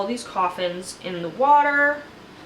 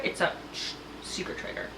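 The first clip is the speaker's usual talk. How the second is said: unvoiced whisper, hushing; mock conspiratorial whisper; whispered secret; 2 semitones lower, 10 dB quieter than usual. Alan reveals the secret.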